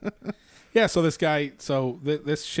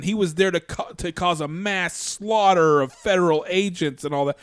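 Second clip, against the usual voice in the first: higher, louder, overblown accusation; mock alarmism; 6 semitones higher, 6 dB louder than usual. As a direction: parrot an official's alarmist claim, punched hard. Mocks officials' alarmist statement.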